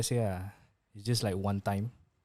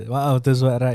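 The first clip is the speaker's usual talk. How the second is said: mock polite girl voice; 13 dB louder than usual.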